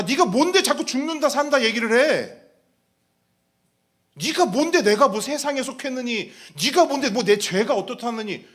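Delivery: loud acted outburst of offence; hurt, indignant retort. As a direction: throw it back, scornful and indignant. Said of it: "그 상한 감정을 가지고 내뱉은 말". (기분 상해서 따지듯 큰 소리로)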